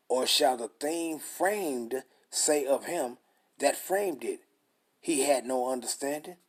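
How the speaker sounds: slow, weighty reading of the verse; scripture reading. Acted. Preacher reading Romans to his listeners, slow and solemn. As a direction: read the scripture out slowly, like the pulpit.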